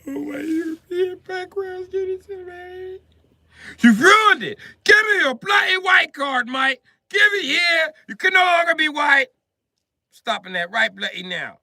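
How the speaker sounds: a Brit furiously confiscating a white card; hammed-up British outrage, nearly screaming; British snapping. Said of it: "when the British snap on him".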